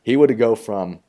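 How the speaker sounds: burp rising while talking. Real, not acted. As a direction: speak through a burp. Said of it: "excuse me, I'm burping again".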